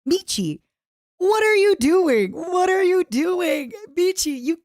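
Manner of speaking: high-pitched exasperated outcry; scandalised scolding. Real, not acted. Streamer accusing Michi of indulging her fetishes, scandalised.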